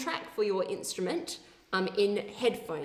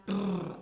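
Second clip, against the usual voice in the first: lip trill. Shown as a demonstration. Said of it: "this time".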